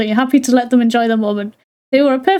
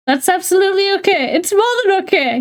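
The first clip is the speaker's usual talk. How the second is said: higher, emotional squeak on "okay"; dad's voice cracking upward with joy; squeaky voice; 6 semitones higher than usual. Acted. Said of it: "his voice squeaked at first".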